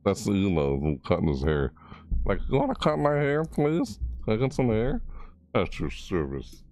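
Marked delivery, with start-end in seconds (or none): 2.5-5.0 higher, pleading little voice; cute shark asking please; mock pleading Jeff. Voicing Jeff asking for haircut. 5.5-6.6 slow, lightly put-on servant voice; mock butler; imitating Blade. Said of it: "Blade's like".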